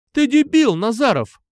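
high, loud furious yell; angry shout. A narrator's reading. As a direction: scream it at the bully. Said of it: "крикнула она".

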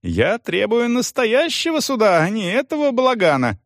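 high, fast shouted demand; indignant rant; furious yell. A narrator's reading. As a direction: demand it at the top of the voice. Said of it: "снова заорал бывший управляющий".

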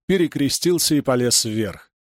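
ordinary delivery

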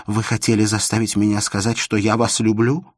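ordinary delivery, nothing marked

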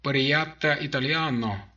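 slow, creaky machine voice. A narrator's reading. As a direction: grate it out like a broken translator box. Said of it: "донеслось оттуда скрипучим голосом".

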